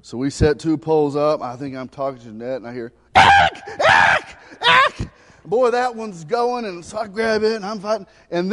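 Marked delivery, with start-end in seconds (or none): 3.2-5.1 loud, urgent call of his name. Retold or imitated. Wife calling Eric to the running pole, loud. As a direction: shout his name across the boat.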